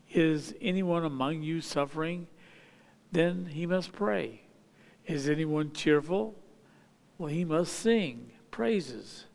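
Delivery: measured, solemn Bible reading; scripture reading. Acted. Preacher reading James to the congregation, solemn scripture reading. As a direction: read the verses steadily to the congregation. Reads scripture passage aloud.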